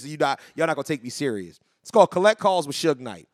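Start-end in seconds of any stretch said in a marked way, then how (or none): 1.8-3.3 holding back a laugh while reading; fighting the giggles, barely straight-faced; breaking character giggling. Real, not acted. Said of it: "I can't keep a straight face".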